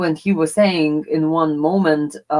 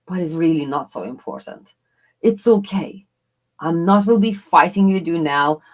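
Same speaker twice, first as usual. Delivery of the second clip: tender inner voice; 3 semitones lower than usual. Pretend. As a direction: calmly soothe an angry loved one in your head. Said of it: "really in your mind say".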